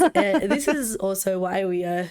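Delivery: hoarse voice from a cold; sick voice. Real, not acted. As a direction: talk through a sore, husky throat. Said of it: "even though I sound like shit".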